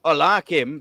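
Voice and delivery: badly faked Scottish accent; hammy, unconvincing Scottish accent; terrible Scottish accent. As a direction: have a poor go at a Scottish accent. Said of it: "That was a terrible Scottish accent".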